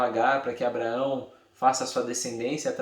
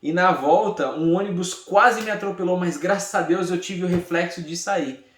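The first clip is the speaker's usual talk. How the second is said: louder, higher pretend testimony, easing at the end; mock grateful testimony; 4 semitones higher, 3 dB louder than usual. Teacher parodies Lia thanking God after a bank robbery, mock testimony. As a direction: play someone absurdly crediting a wrong deed. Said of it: "É mais ou menos ela dizendo assim".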